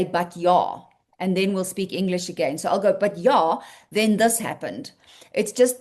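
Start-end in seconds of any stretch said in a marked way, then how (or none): 0.0-0.8 South African "But yeah", yeah as "yah"; South African English. Shown as a demonstration. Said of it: "very Afrikaans, South African English way". 2.9-4.9 South African lead-in with "ja" said "yah"; South African English. Shown as a demonstration. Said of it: "very Afrikaans, South African English way".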